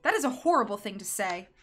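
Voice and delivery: indignant outburst. Acted. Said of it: "Paul burst out".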